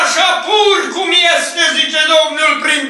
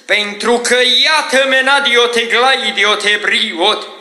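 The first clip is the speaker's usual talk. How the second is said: prophetic preaching. Real, not acted. Prophet speaking for the Lord to the covenant people, fervent preaching. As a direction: preach it in bursts, slowing into tongues.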